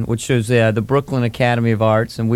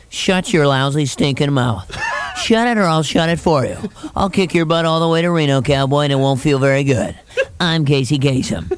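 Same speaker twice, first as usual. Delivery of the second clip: angry Casey Kasem. Retold or imitated. Casey Kasem snapping at a fan in a dream, mock angry DJ. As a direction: threaten like an upbeat DJ gone mad. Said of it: "when he gets mad".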